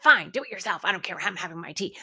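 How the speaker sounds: loud, huffy "fine" that settles down; resentful snap. Shown as a demonstration. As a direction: throw it out like a resentful martyr. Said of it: "with that fearful energy".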